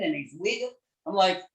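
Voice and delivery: usual speaking voice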